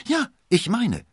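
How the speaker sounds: loud, high, cocky confirmation; high-spirited. A narrator's reading. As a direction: exclaim it full of bravado. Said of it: "rief D'Artagnan übermütig".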